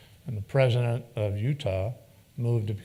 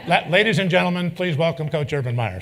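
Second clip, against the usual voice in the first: laughing intro; 6 semitones higher, 7 dB louder than usual. Real, not acted. Introducing the punchline joke.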